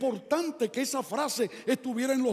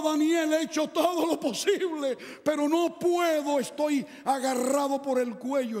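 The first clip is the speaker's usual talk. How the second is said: King Darius pleading; 3 semitones higher than usual. Acted. Preacher voices King Darius.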